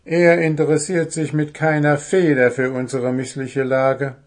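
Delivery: lightly voiced little dwarf, put out; Puh's complaint. Dwarf tells friends, mildly indignant. Puh reports crow's indifference.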